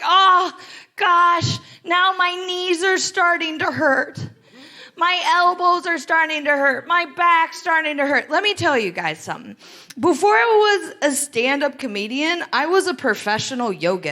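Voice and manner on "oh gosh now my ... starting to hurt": mock complaining. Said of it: "They're like".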